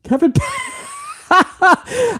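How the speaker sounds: very high squeaky yell breaking into a laugh; Kevin Patrick impression. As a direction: shriek the name and crack up. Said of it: "I don't even know if I could do Patrick".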